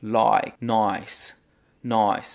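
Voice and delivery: "like" as "loike", "nice" as "noice"; Aussie like and nice. Shown as a demonstration. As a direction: give "nice" an oi vowel. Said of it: "eles vão usar isso em outras palavras". ("nice" como "noice")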